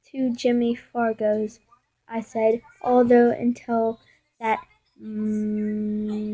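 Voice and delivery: measured storybook reading; halting read-aloud narration; story read-aloud. Acted. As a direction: read the story out steadily, with pauses between phrases.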